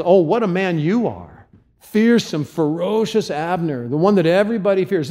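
high, mocking praise; mock-admiring jeer at the bodyguard; taunting. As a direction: sneer the flattery. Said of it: "He taunts him".

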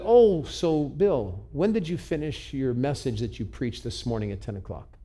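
lightly voiced knowing question from God; God's voice. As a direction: draw out the opening, then ask pointedly. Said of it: "And then God's voice".

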